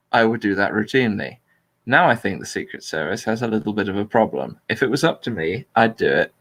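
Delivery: flat, neutral reading of a speech; monotone voice. Shown as a demonstration. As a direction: read it out flat and neutral, no spin. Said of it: "in a completely neutral monotone voice".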